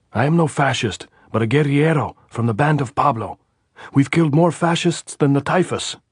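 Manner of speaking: high, loud shout across the wire. A narrator's reading. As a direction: yell it so the post hears you. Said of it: "Andres shouted".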